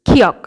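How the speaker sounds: খিয়ক with fused k-kh, pitch falling; k-kh blend. Shown as a demonstration. Teacher modelling the letter for learners, k-kh blend. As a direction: say খিয়ক low, strong puff on the first sound. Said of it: "কয় খয় একসাথে উচ্চারণ করবেন".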